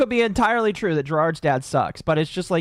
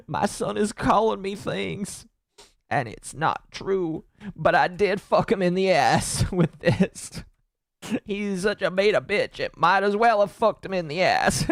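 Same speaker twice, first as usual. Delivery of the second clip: put-on southern accent. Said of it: "a southern accent".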